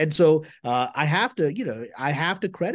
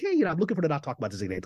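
very polite; 2 semitones higher, much faster than usual. Retold or imitated. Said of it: "I said that very politely".

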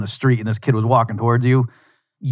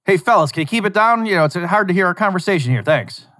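higher, half-yelled call over the shoulder; mild mock yell; 8 semitones higher than usual. Louis to the rowdy kids behind him, a mild mock yell. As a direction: toss it back at the kids, not quite a yell. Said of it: "He just kinda yells it at them".

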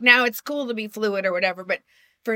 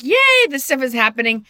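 excited yay; 4 semitones higher, 5 dB louder than usual. Retold or imitated. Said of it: "I'm like".

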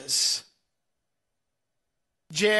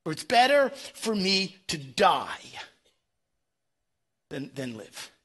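despairing Jonah; 3 semitones lower than usual. Retold or imitated. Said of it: "He actually says this".

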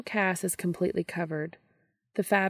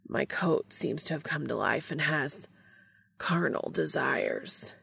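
panting. Acted. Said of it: "Castiel pants".

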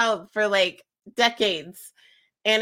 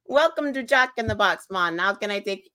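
put-on drive-through greeting in a light Jamaican accent. Worker greeting drive-through customers, put-on Jamaican accent. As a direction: imitate a Jamaican order-taker. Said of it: "I would speak with a Jamaican accent".

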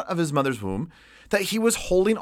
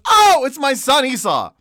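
put-on fooled old father; 8 semitones higher, 5 dB louder than usual. Isaac fooled by goat skin.

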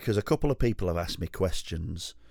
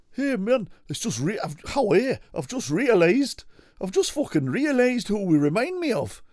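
excited rocker mate; 11 semitones higher than usual. Acted. Rocker telling his mate who they remind him of, high and excited. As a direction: gush like a rock dude who just had an idea. Acted dialogue between two rockers.

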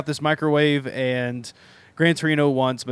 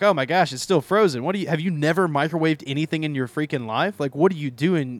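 mock berating; 3 semitones higher than usual. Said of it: "he kind of is berating him, like, really hard".

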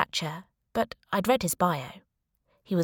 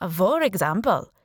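put-on Indian accent; 4 dB louder than usual. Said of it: "he said in a strong Indian accent".

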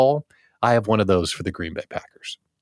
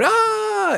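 mock cheer yell. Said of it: "everybody yelled".

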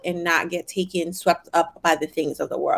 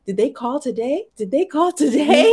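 anxious mom; 7 semitones higher, 3 dB louder than usual. Retold or imitated. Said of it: "who's always like".

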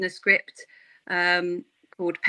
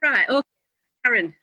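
usual speaking voice

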